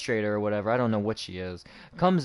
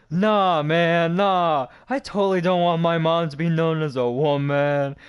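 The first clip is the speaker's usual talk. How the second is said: higher, louder retelling of a defiant comeback; mock indignant comeback; 5 semitones higher, 5 dB louder, slower than usual. Student talking back over his essay, mock indignant. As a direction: act out his indignant pushback. Acting out a friend's sarcastic comeback.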